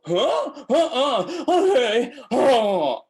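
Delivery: put-on high baby babbling melody; high cooing baby sounds; baby babble. Shown as a demonstration. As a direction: babble like a baby, all tune no words. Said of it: "babies don't speak the language".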